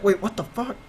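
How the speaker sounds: mock alarmed protest. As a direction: protest in mock disbelief with a laugh creeping in. Acting out the startled boy's protest.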